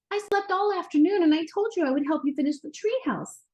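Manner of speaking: put-on high, upset child on the verge of tears; boy upset with dad for missing the building; teary. A narrator's reading. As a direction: blurt it out, a little teary. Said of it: "with a tear in his eye".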